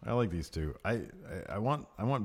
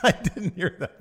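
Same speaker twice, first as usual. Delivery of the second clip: high-pitched words through laughter; amused laughing; 10 semitones higher, 4 dB louder than usual. Real, not acted. Co-host hearing the joke for the first time, laughing. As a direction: answer while still cracking up.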